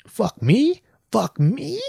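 high, rising mock-incredulous question; acted high-pitched indignation; indignant disbelief. Acted indignant comeback to seatmate.

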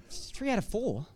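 incredulous repeat through a laugh; can you believe it, chuckling; laughing disbelief. Real, not acted. Preacher repeats the father's words to the congregation, laughing in disbelief. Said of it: "That's like seventy-five percent".

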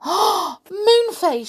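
Silky calls to Moonface in alarm; Silky pleading. Acted. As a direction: cry his name in alarm. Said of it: "she said".

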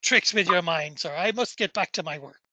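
mildly uneasy caretaker, halting; scared. Acted. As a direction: brush it off nervously and make excuses. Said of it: "he seems just scared".

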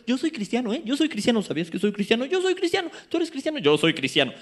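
hammed-up boaster; mock boastful Christian. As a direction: make fun of empty claims of faith. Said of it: "ir por la vida diciendo".

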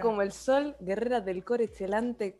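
halting mock Italian. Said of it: "me estás deletrando el italiano".

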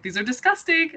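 high-pitched recoil at the taste; disgusted reaction. Retold or imitated. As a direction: squeal it out in disgust. Tasting the spoiled burgers.

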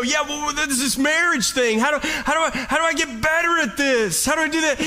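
a hint of an anxious churchgoer; earnest asker. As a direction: ask God for help, a little lost. Voicing a believer asking God.

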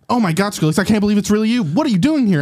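mildly awed surprise; starstruck. Acted. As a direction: gush a little at meeting your idol. Starstruck fan meets his idol.

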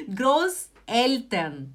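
Großeltern drawn out slowly, final n held; slow model word. Shown as a demonstration. Teacher showing students how to say it, slowly. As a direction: stretch out Großeltern. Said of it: "Seria assim".

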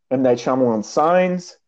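breathless from reading the long list; winded, puffing between titles; out of breath. Real, not acted. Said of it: "I'm running out of breath".

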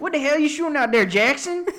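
fast, high, loud barked yell; mock drill sergeant. Drill sergeant yelling at recruit Jackson on the range, mock bark.

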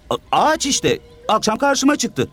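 put-on high child's halting voice; stammering child. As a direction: stumble over it like a kid. Orhan child voice.

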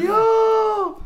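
high shouted yo; loud yell. Retold or imitated. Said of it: "It's like".

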